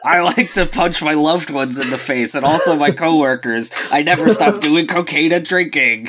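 lightly hammed-up celebrity impersonation; lightly caricatured bad-boy star; Johnny Depp. Shown as a demonstration. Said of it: "That's my Johnny Depp impersonation".

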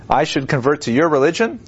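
rising, disbelieving question; incredulous question. Retold or imitated. Volodymyr scoffing at the homeless Jews, incredulous. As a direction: ask it like it's absurd. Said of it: "He says it like that too".

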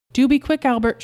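anxious mother urging speed; urgent call. Acted. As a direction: call to him to hurry over a crying baby. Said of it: "she called".

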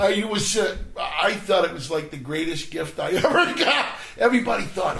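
high, loud burst of enthusiasm; excited. Real, not acted. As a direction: exclaim it with a laugh breaking in. Excited answer about the heart attack.

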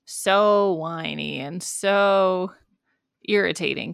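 slow, mildly exasperated imitation; mock exasperation. Host imitating the show's view of teenagers, mock exasperation. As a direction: drag out the words in mock dismay. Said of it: "this thing that they do a lot in this show that's like".

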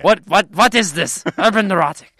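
high, loud mock German accent; typical German. Mocking a German reaction to the film title, German accent. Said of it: "Well, typical German".

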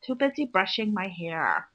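lightly drawled mock valley girl. Acting a valley girl while cohost laughs, light mock voice. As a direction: play a bored shallow girl, half-hearted. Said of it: "I can't believe you're talking like this".

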